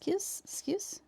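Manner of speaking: soft unvoiced whisper; breathy pardon whisper. Real, not acted. Whispering to get past.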